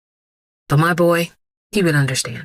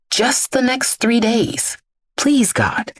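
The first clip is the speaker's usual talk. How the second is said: higher, slow, hushed begging; desperate plea; 7 semitones higher, slower than usual. Acted. Father in his car begging God for food money, desperate. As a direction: pray as if it's the last hope. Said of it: "silently pleading for money".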